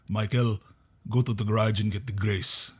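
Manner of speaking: lightly imitated Filipino accent, even and unhurried; dad's Filipino accent. Son imitating dad asking for help in the garage, Filipino accent. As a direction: give a mild Filipino-accented dad's order. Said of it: "That's what his accent is".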